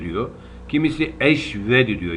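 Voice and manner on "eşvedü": eşvedü with a v where the h belongs; wrong pronunciation. Shown as a demonstration. Teacher mocking a wrong reading, v for h. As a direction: say eşvedü, the mistaken form. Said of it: "Yanlış bunlar".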